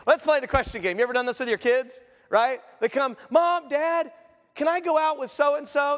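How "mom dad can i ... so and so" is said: lightly voiced kid, pitched up; eager child asking. Child asking parents to go out, lightly acted eagerness. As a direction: call it out like a hopeful kid.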